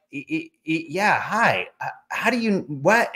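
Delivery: high, stammering starstruck fumble; flustered stammer. Retold or imitated. Fan stammering at the famous author, high and flustered. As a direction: trip over the words, starstruck. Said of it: "and I'm like".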